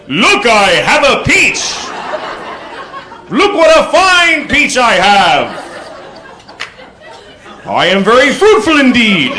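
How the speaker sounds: slow, high, pompous showing off; proud peach waver. Retold or imitated. Waving a peach at a friend across the street, pompous and slow. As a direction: show off the peach like a fine trophy. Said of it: "I felt like I was going".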